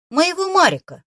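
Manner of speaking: high, loud trembling cry. A narrator's reading. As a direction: let the voice shake on the name. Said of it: "дрожащим голосом произнесла она".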